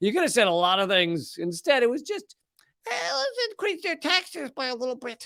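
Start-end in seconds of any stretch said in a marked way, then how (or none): 2.9-5.3 play-acted timid, sad voice, very high and soft. Mocking a timid proposal to tax the rich, in a put-on meek, sad voice. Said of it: "It's just a, a, a meek, uh, sad voice".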